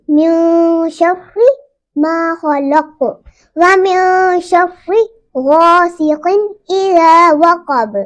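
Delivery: slow, measured tajweed recitation; slow Quran recitation. Shown as a demonstration. Teacher recites the next verse for students, slow. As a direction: recite each word slowly and evenly. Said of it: "reciting the verse slowly".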